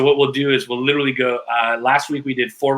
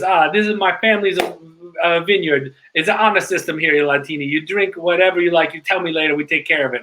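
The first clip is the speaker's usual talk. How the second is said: Italian waiter; 4 semitones higher than usual. Retold or imitated. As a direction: sell the dish like a charming Florentine server. Waiter presents family wine.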